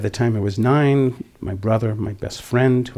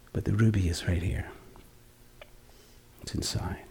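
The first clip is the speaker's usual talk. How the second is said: whispered, secret and intimate; hushed whisper; 4 semitones lower, 9 dB quieter than usual. Real, not acted. Teacher whispering the answer to his listeners.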